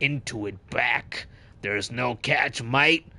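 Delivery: put-on sly shopkeeper, a touch of accent; merchant voice. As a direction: pitch the wares like a merchant. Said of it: "You guys like my merchant voice?".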